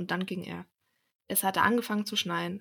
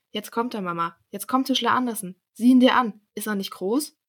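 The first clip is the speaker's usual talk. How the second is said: put-on lively, louder announcement in a child's excitement; excited children; 2 semitones higher, 8 dB louder than usual. A narrator's reading. Children telling Mama the carpenter is coming, excited. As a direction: show off the visitor with mounting excitement.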